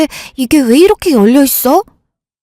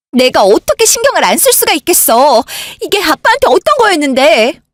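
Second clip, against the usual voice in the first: higher, indignant pleading; how could I not care, rising in upset; upset retort; 5 semitones higher than usual. Acted. Older sister to husband, upset over father's safe, indignant higher retort.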